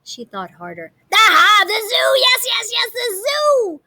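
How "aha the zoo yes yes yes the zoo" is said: high, loud, eager cry of discovery; she's sure she's got it, then slows; excited witch. Acted. Gritch thinking up where pigs are, high excited voice. Witch gets another idea.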